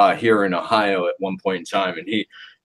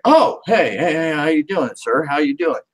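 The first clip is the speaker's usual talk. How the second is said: boss Jim voice; 5 semitones higher than usual. Retold or imitated. Jim greeting in put-on voice.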